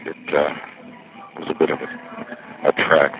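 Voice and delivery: slightly winded, short of breath. Real, not acted. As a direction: talk while catching your breath. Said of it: "I'm a little winded".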